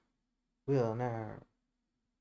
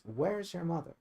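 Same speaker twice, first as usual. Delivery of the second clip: quoted; 4 semitones higher, 3 dB quieter than usual. Retold or imitated. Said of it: "Your love says".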